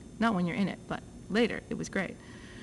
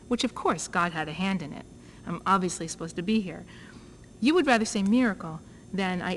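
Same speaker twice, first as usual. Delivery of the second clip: lightly voiced indignation, a few words pushed louder; retold outrage; 3 dB louder than usual. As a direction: replay the anger at the doctor, mildly. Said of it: "I got really enraged".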